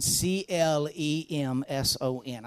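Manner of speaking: each letter of C L E M S O N spaced out and slow; slow spelled-out letters. Shown as a demonstration. Teasing Clemson students, he spells the name out slowly. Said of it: "I'll say it again real slow".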